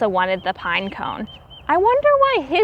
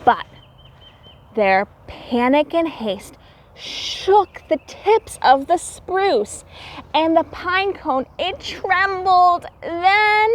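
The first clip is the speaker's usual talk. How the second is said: storybook narration; slower than usual. A narrator's reading. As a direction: draw out the suspense as the pine cone comes loose.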